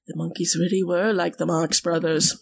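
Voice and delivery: a hint of badly faked Liverpudlian; attempted Liverpudlian accent. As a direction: have a poor go at a Liverpudlian accent. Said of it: "I cannot do a Liverpudlian accent".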